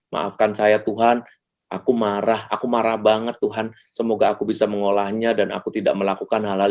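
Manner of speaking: slightly subdued, measured prayer; lightly acted confession of feelings, unhurried; model prayer. Shown as a demonstration. Speaker shows listeners how to admit anger to God, subdued prayer. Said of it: "Kenali dulu bahwa saya ini emosi".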